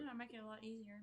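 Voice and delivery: chewing while talking; mouth full. Real, not acted. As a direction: talk through a mouthful. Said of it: "I'm talking with my mouth full".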